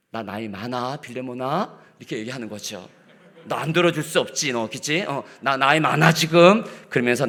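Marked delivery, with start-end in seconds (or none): 3.4-6.6 put-on pressuring old apostle. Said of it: "여러분, 이렇게 나오고 있는 거예요".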